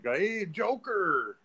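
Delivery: high, drawn-out mock Latin greeting; Latin accent. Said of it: "like, Latin".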